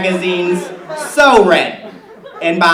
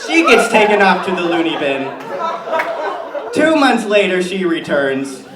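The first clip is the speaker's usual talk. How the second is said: Tammy Kirscher character. Acted. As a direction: play a chatty suburban mom comic. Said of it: "please give it up for Tammy Kirscher".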